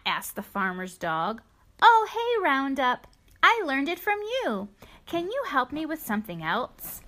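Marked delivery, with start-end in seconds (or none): 1.8-7.0 bright, eager cow voice, pitched up; a playful calf greeting a friend; cheerful young cow. Acted. Cow Chicken Lips greets dog.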